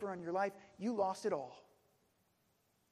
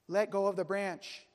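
booming voice; 5 dB louder than usual. Acted. God commanding the climber from above, booming. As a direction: boom the order down. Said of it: "boomed the voice".

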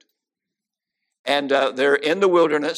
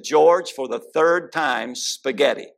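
exasperated wife; slower than usual. Retold or imitated. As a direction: spell it out, fed up with repeating. Exasperated wife repeating answer.

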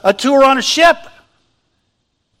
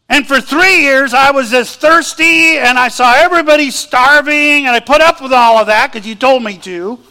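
Elijah's rant; 3 semitones higher than usual. Acted. Elijah venting at God about all he did, raised and aggrieved. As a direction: pour out every grievance, voice raised.

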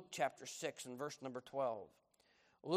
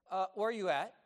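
a higher, louder nagging grandma; grandmother on phone; 6 semitones higher, 7 dB louder than usual. Retold or imitated. Grandmother asking her grandson where he is, higher nagging. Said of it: "And she said".

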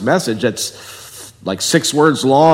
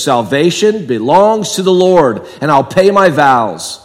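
slow, louder proclaiming; Jonah's prayer; 3 dB louder than usual. Retold or imitated. Preacher voices Jonah crying out to God, slow proclaiming. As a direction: declare it slowly from the fish's belly. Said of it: "he says".

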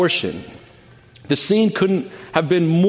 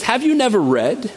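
a sarcastic, raised question with the pitch higher; 7 semitones higher than usual. Retold or imitated. Jesus to the indignant scribes, sarcastic and pointed. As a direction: ask it with pointed sarcasm, as if they should know. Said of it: "You can hear the sarcasm".

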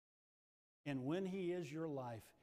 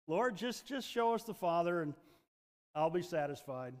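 pleading Philip; 4 dB louder than usual. Acted. Philip begging Jesus to just show the Father, eager. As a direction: beg like a simple, eager disciple. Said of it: "good old Philip".

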